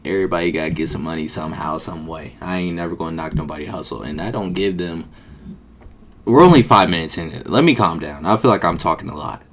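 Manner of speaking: ordinary talk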